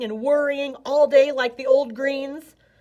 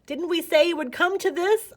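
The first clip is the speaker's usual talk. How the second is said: put-on scolding old snake; 8 semitones higher than usual. A narrator's reading. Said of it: "Umble said, shaking his head".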